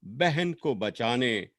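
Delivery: measured lament, lines rising and then falling away; poem recitation. Acted. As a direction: recite a sister's farewell with long pauses between phrases.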